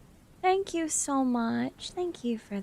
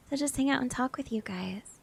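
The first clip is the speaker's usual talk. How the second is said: soft unvoiced whisper; 6 dB quieter than usual. Real, not acted. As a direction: whisper it gratefully. Thanks viewers softly.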